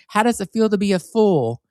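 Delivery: spring the punchline in a sweet mock DJ voice; Barbara Midnight DJ voice. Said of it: "my name was Barbara Midnight".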